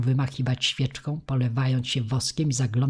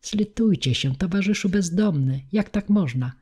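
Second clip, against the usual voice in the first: higher, pleading voice; flustered protest; 6 semitones higher, 3 dB louder than usual. A narrator's reading. Jovial man backing away from the poet, flustered protest. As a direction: back off, protesting high. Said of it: "odpowiedziała twarz, czerwieniejąc się, wycofując i żałując".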